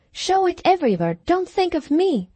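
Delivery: feverish. A narrator's reading. Feverish signing, gives paper.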